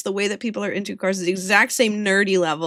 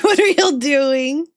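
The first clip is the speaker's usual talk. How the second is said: imitated bewilderment; 4 semitones higher, 5 dB louder, slower than usual. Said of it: "She stood there like".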